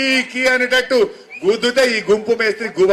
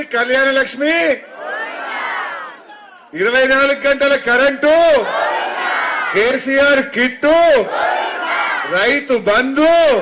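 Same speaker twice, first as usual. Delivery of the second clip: slow rally shout; 2 semitones higher, slower than usual. Real, not acted. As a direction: call out each scheme slowly to the crowd. Rally list of lost schemes.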